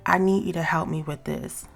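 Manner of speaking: calm, even ask for help; gentle request. Shown as a demonstration. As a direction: ask for help kindly, no edge. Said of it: "so you would say things like".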